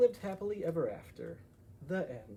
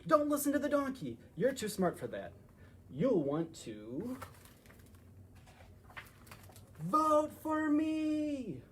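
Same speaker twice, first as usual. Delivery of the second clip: loud, high, drawn-out campaign plea; pleading elephant; 8 semitones higher, 3 dB louder, slower than usual. Acted. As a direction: stretch out the last words slowly.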